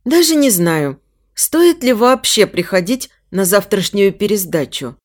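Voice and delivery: usual speaking voice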